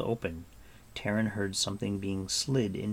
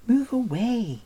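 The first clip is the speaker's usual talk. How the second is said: crying out; 13 semitones higher, 6 dB louder, slower than usual. A narrator's reading. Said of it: "cried a faint voice".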